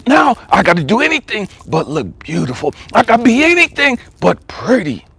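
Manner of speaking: emphatic voicing of another's resolve; high, insistent retold declaration; impassioned retelling. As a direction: insist on it like a preacher quoting her. Voices her resolve in preaching pitch.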